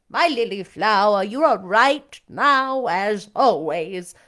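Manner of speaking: lightly voiced old lady, slow and fond; a hint of a grand old mother; doting dowager mother. A narrator's reading. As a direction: coo it slowly to a favourite daughter. Lady Ingram answers her daughter.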